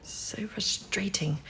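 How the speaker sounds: a soft, slow sigh of frustration; whispered under the breath, slow and exasperated; frustrated whisper. Acted. Frustrated near breakthrough, whispered.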